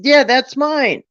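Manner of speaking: imitating herself, thrilled to hear the news; retold excited relief. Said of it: "I said".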